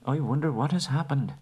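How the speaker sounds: high-pitched hobbit, wondering; dazed Bilbo. Acted. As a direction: voice a puzzled little hobbit coming round.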